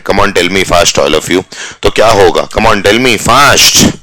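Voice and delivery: slow drawn-out urging; slow teacher prompting; slow coaxing. Shown as a demonstration. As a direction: coax the class to answer. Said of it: "urging class to answer".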